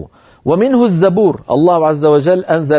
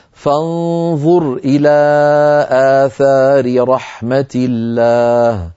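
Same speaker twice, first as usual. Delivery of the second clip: slow, melodic recitation; Quran recitation; much slower than usual. Acted. Teacher quotes the verse in recitation tone.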